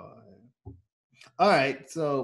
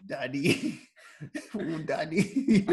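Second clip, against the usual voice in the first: seductive laughing; 3 semitones higher, much slower than usual. Pretend. Sultry call, laughing.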